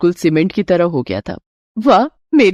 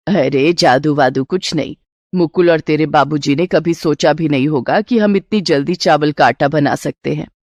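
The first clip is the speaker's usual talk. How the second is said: put-on lower, easy older mother's voice; mother reassuring her hungry son, lower older woman's voice; mother-in-law; 4 semitones lower than usual.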